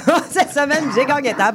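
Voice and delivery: mock Phil voice, giggling; imitating Phil, laughing. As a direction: laugh through the mimicry. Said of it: "on demande à Phil comment ça a été sa semaine".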